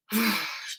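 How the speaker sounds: child's sigh put on by the parent; imitated reluctant sigh. Daughter giving in to mom's suggestion, imitated sigh. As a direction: let out a mock reluctant sigh.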